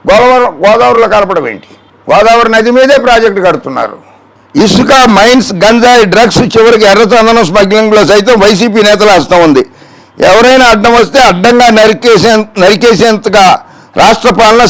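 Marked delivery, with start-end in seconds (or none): 4.6-14.6 emphatic reading of accusations; declamatory read-out. Acted. Host quoting the opponent's charges before answering, declamatory. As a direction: read out the charges in a raised register.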